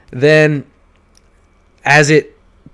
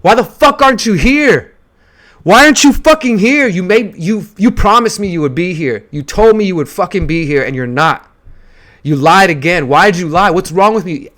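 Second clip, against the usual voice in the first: screaming at the absent father, much higher and louder; furious outburst at father; 6 semitones higher, 5 dB louder than usual. Retold or imitated. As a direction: let years of anger explode at dad. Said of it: "I fucking let go and I said".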